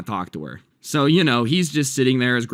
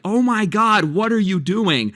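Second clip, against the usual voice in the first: high, louder imitated panicked yell; mock the grandson's horrified outcry, pitched up; panicked scream; 9 semitones higher, 3 dB louder than usual. Grandson watching grandma set his games alight, imitated panicked yell. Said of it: "when he starts screaming".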